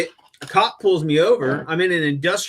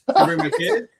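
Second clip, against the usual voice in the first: repeated plea, pitched up high through a laugh; 12 semitones higher, 3 dB louder than usual. Retold or imitated. Pleading with the judge, laughing at the absurdity. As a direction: laugh as you beg to bring the kids. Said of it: "I'm like".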